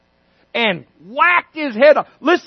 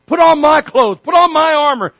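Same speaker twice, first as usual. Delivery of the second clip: insistent Saul; 4 semitones higher, 4 dB louder than usual. Acted.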